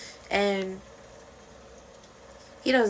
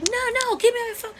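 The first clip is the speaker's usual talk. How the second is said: high, loud demand for the phone; snatch the phone back, indignant; angry protest; 4 dB louder than usual. Retold or imitated. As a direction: Shanae fighting for her phone, pretending to be mad. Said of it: "She's like".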